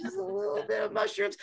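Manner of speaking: squeaky high. Acted. Stoned squiggly description.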